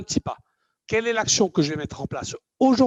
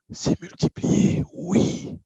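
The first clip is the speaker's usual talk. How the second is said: mock amazement; 13 semitones higher, much slower than usual. Acts out a sudden discovery.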